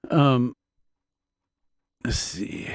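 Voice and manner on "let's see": whispered to self. Real, not acted. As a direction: breathe the words under breath. Unvoiced whisper aside.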